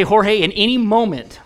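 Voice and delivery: high, loud mock announcement; coach calling out. Coach making fun of a delayed throw, calling out. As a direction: call across the field, poking fun.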